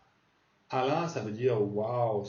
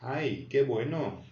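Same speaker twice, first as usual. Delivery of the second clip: delighted exclamation; slower than usual. Shown as a demonstration. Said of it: "on l'avait dit".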